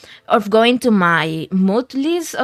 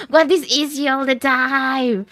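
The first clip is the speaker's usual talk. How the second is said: slower, stunned disbelief; slow amazed repeat; 3 semitones higher than usual. Real, not acted. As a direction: let the question hang in wonder. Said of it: "uh, was this easy all the time?".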